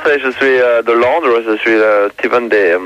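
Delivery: put-on French with an English accent; halting French, English accent, lots of euh; broken french. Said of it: "je parle un peu français".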